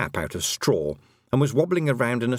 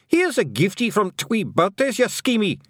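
high, louder Scottish feagle yell; 11 semitones higher, 4 dB louder than usual. Acted. Feagle gripping the cat's ears, high Scottish yell. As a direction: shout it in the cat's face.

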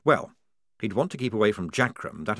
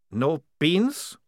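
higher, aghast question; dismayed vampire; 7 semitones higher than usual. Acted. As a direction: disbelief at the loss. Maledict dismayed.

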